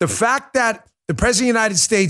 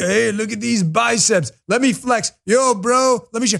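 mock tough-guy street bravado, higher pitch; 3 semitones higher than usual. Mocking people who act tough about where they grew up: mocking tough-guy act. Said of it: "Stop with the routine from that song".

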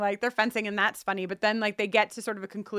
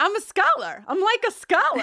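put-on thick Boston accent, pitched higher; 9 semitones higher, 4 dB louder than usual. Imitating a character from the scene: Percy in a thick Boston accent. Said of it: "the thickest Boston accent of all time".

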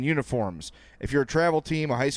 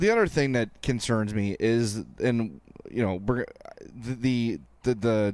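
stammering, tripping over words, lower pitch; 3 semitones lower than usual. Starting a point about the team, stammering. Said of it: "I'm really stammering right now".

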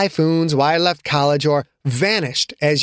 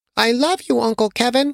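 put-on tiny, high, small little-boy voice; 6 semitones higher than usual. Put to bed by his uncle, Victor speaks to him in a tiny voice. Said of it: "in his tiny voice".

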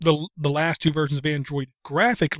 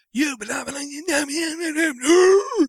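shrill, very high screaming at the top of lungs; 12 semitones higher than usual. Retelling how his son screamed while gaming: imitating his son screaming. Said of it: "screaming at the top of his lungs".

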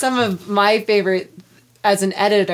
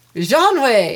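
mock French accent, louder, with a laugh. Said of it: "Do French".

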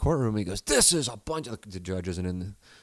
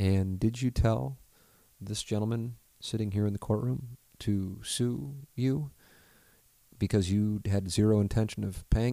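imitated calm, flat monotone. Retelling a man's courtroom questioning of a witness, imitating calm NPR monotone. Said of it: "almost NPR delivery, monotone".

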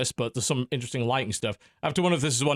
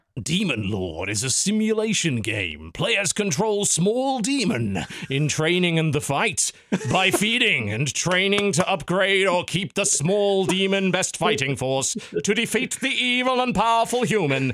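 grand epic narrating voice, higher pitch; 6 semitones higher, 3 dB louder than usual. Reading a game description aloud when asked for a very epic voice: very epic voice. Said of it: "in a very epic voice".

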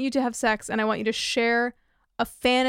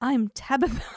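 put-on British accent voice; 2 semitones higher than usual. Retelling a woman who comes in and introduces herself, put-on British accent. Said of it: "switches to a British accent and is like".

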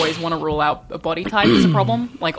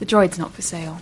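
British-accented voice. Asked to perform voices for a video, doing a british accent. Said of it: "they always get me to do any kind of British voice".

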